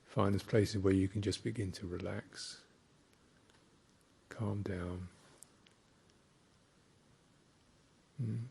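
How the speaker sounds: soft, settling guidance, with pauses; calming release. Real, not acted. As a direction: ease them gently into letting go, softly. Guiding listeners to relax, let go.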